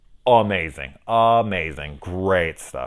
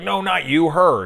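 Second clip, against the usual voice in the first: squeaky voice for the man in the scene; high, pushed excuse with a point; mock high panicked protest; 11 semitones higher, 6 dB louder than usual. Retelling a movie scene, a high mock voice for the man.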